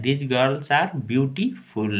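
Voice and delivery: each word slowly and clearly for the class; slow model reading. Shown as a demonstration. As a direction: read it out slowly like a teacher. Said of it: "तो बोलेंगे ये लड़कियां सुंदर हैं". (धीमे, साफ़ उच्चारण में)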